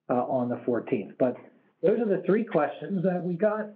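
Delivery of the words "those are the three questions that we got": slightly hoarse, voice going; losing her voice a little. Real, not acted. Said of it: "losing my voice a little".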